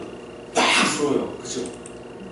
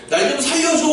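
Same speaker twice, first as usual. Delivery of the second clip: put-on baby's plea; 8 semitones higher than usual. Crying baby's plea voiced.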